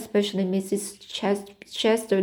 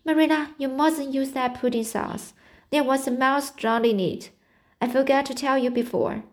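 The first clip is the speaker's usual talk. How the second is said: high shrill shriek of alarm; 5 semitones higher than usual. Acted. Anne shrieks a warning to Marilla at dinner, high and urgent. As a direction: shriek it out in horror at the table. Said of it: "and shrieked out".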